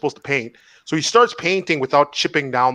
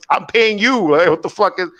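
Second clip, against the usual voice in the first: higher-pitched exasperated protest; retold indignation; 5 semitones higher, 3 dB louder than usual. Buddy to person from Bell, mock indignant. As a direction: imitate a customer who can't believe it.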